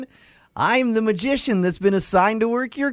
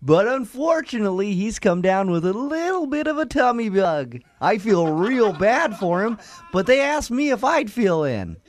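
magician voice. Acted. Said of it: "You don't even sound like a magician".

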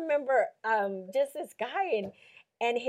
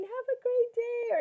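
mock friendly; 13 semitones higher, slower than usual. Imagined sweet reply.

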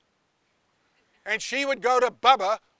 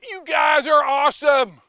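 excited loud high welcome; love and mercy inviting; 3 semitones higher, 4 dB louder than usual. Acted. Love and mercy calling mankind, excited and loud. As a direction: call them in with delight. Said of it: "Love and mercy are looking out over mankind saying".

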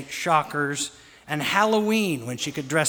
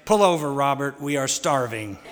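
firm order, hitting the first words louder; lightly acted hungry demand; no-nonsense insistence; 4 dB louder than usual. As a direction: imitate a wife who has waited long enough. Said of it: "in a tone of voice we all understood".

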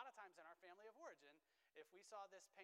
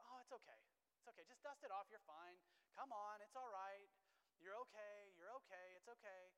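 1 brushing it off; 3 semitones higher, 5 dB louder than usual. Retold or imitated. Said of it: "it would be very easy for me to go".

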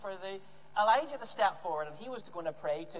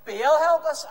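loud, high drawn-out plea; acted cry for help to a god; calling out; 8 semitones higher, 13 dB louder, slower than usual. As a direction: stretch it out and call high. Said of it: "they kept calling".

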